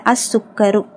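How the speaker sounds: "அஸ்ஸுக்கரு" with no L and a doubled S; silent lam. Shown as a demonstration. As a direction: say "அஸ்ஸுக்கரு", the article merged into S. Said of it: "லாம் உச்சரிக்கப்படலை". ("அஸ்ஸுக்கரு" லாம் இல்லாமல்)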